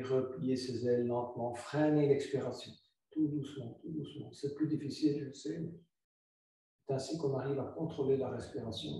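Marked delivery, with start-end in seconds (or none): 3.1-4.3 each tout doucement softer, trailing off; fading softly. Shown as a demonstration. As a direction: let the voice fade with the breath. Yoga teacher slowing the exhale. (de plus en plus doux, en s'éteignant)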